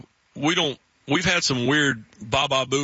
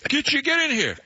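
high-pitched mock-urgent coworker; hammed-up high-voiced New Englander calling out; frantic New England coworker; 13 semitones higher than usual. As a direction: imitate a coworker urgently hunting for someone. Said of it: "one of my New England coworkers".

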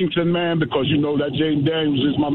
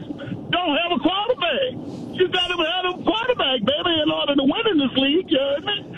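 excited preaching; 10 semitones higher than usual. Real, not acted. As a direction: preach it high like a fan on a roll. Caller preaching his point.

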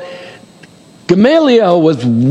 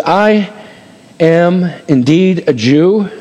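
slow declaration; much slower than usual. Acted. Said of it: "Watch what he says".

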